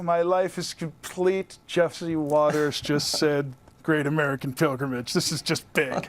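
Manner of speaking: low, slow, mock-reverent; mock awe. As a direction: savor it like a huge honor. Mock awe at host naming show.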